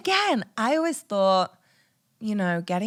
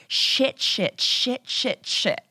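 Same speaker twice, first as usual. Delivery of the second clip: rapid-fire panicky cursing, half-voiced; re-enacted shock; 4 semitones higher, much slower than usual. Woman retells her first words on seeing the test, shocked. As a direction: repeat the curse in a mock panic. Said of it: "I'm in, like, full-blown shock".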